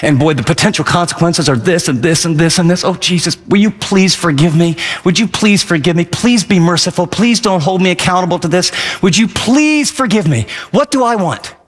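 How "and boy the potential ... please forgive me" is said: lower, mildly contrite plea; understated penitent praying; pleading prayer. Retold or imitated. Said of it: "I come to God and I say".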